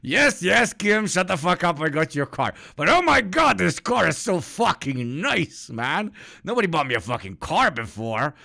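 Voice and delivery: high, loud excited squealing; mock overjoyed Kim; imitating giddy Kim. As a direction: gush over the car like a spoiled kid. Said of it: "he's like".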